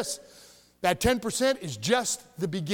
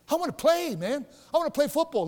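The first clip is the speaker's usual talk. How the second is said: whiny complaint; 5 semitones higher than usual. Retold or imitated. Teen boy complaining about bench.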